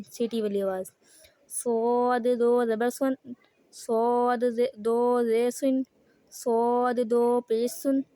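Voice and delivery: slow, steady chanted spelling; takhti recitation drill. Shown as a demonstration. Teacher leads students through the takhti chant. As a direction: recite each letter's tanween like a class drill.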